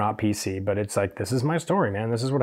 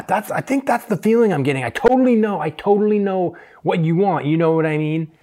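higher, breezy salesy assurance; confident stylist; 5 semitones higher than usual. Retold or imitated. Stylist assuring the client he knows her look, higher and salesy. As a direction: sell it with total confidence.

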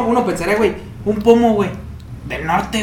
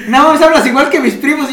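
put-on quoting a girl; 9 semitones higher, 9 dB louder than usual. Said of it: "me dijo".

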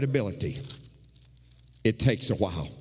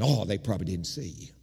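brushing it off, lower and offhand; dismissive; 4 semitones lower than usual. Retold or imitated. Husband brushing off his wife's hurt, offhand and dismissive. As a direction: wave her worry away lightly. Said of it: "My attitude has been".

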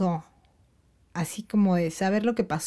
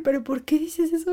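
worried mom; 9 semitones higher than usual. Retold or imitated. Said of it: "Y yo".

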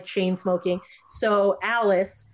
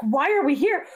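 mock panicked questions, much higher pitch; freaking out; 9 semitones higher than usual. Neighbor Margaret panicking at the party, imitated high and alarmed. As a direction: play her spiralling into alarm, pitched way up. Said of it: "kinda, like, freaking out".

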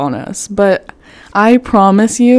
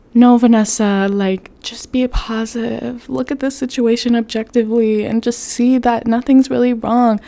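self pep talk; 4 semitones higher than usual. Retold or imitated. Talking herself into positivity.

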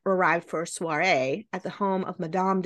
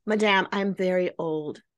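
mock French accent. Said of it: "My horrible French accent".

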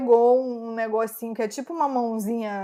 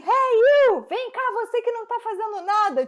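scolding; 10 semitones higher than usual. Retold or imitated. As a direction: mimic her bossily yelling at the officer. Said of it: "ela deu uma bronca no policial".

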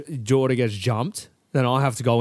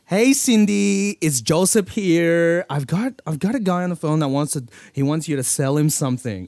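put-on Filipino American accent; 3 semitones higher than usual. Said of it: "Is that a Filipino accent?".

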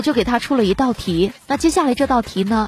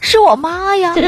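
mock yell; 4 semitones higher, 4 dB louder than usual. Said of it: "就吼着说".

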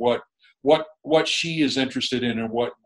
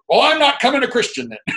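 much higher, hammed-up stubborn refusal; mock husband refusing; 13 semitones higher, 5 dB louder than usual. Husband refusing to become a Christian, hammed-up and much higher. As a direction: play the balky husband digging in, high. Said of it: "he'd go".

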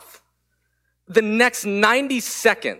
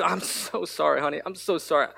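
softer, gentle apology to a hurt daughter; a soft, sincere sorry; tender apology; 5 dB quieter than usual. Retold or imitated.

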